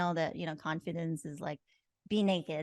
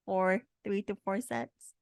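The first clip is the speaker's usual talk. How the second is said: strained, winded from the workout; pushing through the exertion; out of breath. Real, not acted. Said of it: "My arms are dying".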